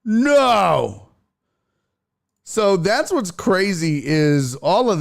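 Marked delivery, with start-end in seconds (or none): 0.1-1.1 mock whiny refusal. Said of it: "she's like".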